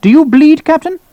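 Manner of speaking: loud, very high-pitched demand; barking colonel. Acted. Colonel questioning an officer about bleeding, barking. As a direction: fire the question out, rising.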